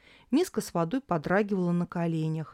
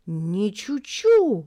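admiring; 3 semitones higher, 7 dB louder, much slower than usual. A narrator's reading. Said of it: "восхищённо сказала Тори".

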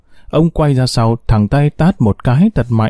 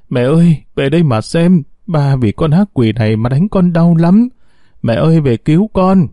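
higher mournful wail; wailing pitifully; 4 semitones higher than usual. Acted. Daughter wailing to her mother's altar, higher and mournful. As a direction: cry out to the dead mother, pitched up. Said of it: "gào lên thảm thiết".

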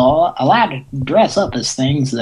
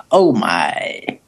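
Mister Sulu; 7 semitones lower than usual. Retold or imitated. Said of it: "go as Mister Sulu".

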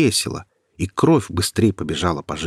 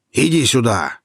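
shouted; 4 semitones higher, 4 dB louder than usual. Acted. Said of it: "крикнул он".

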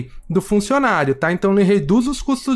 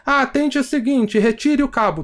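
lightly voiced robot menu, higher; phone menu voice; 6 semitones higher than usual. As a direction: talk like a mild automated phone line. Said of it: "Tudo robô falando".

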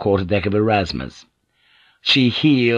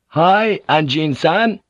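answering shout; 7 semitones higher, slower than usual. A narrator's reading. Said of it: "came the answering shout".

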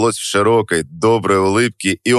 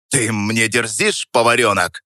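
рявкая; 2 semitones higher than usual. Acted. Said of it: "рявкнул он с такой силой".

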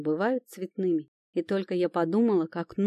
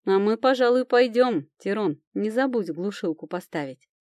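a friend teasing as she leaves; merry teasing goodbye; cheerful; 3 semitones higher, 4 dB louder than usual. Acted. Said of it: "весело сказала Настя".

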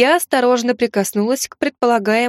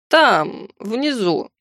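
suffering; much slower than usual. Acted. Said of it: "со страданием ответил Жердо".

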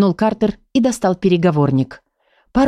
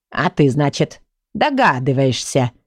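lower, slow and snide; 5 semitones lower than usual. Acted. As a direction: needle him with a sly question. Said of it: "ехидно спросил Сборник". (ехидно, низко и медленно)

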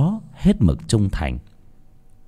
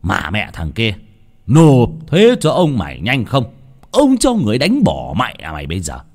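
mild shout; 3 dB louder than usual. Acted. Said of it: "Lão Chánh ngồi vắt chân mà quát".

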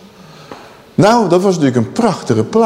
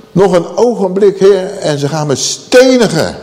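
panicked cry; 4 semitones higher than usual. Acted. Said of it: "Mozes die raakte denk ik ook wel van in paniek".

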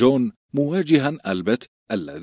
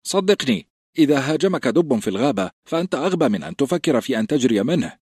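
sly teasing recruit; 6 semitones higher than usual. A narrator's reading. Pyp teasing Grenn.

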